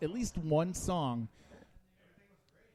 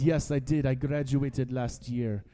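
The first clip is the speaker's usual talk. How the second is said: a mild put-on Indian accent, earnest; understated mock Indian accent; 5 dB louder than usual. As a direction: lightly voice the Indian scammer answering proudly. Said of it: "that's the best accent I've ever done".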